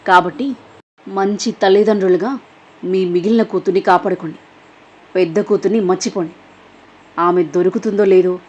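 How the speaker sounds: lightly voiced threatening woman on the phone; a hint of cold menace, pushing the threat; menacing caller. Villain on the phone warning the parents, lightly menacing.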